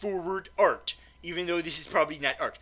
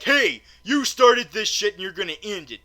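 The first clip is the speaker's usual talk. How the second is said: Franklin; 4 semitones higher, 7 dB louder than usual. Acted. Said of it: "Franklin is like".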